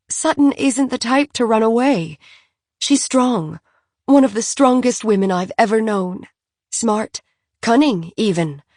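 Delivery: a lightly voiced, upset Francophile mother; distressed socialite. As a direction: plead your friend's case, tearful but insistent. Philly voiced, upset about Sutton.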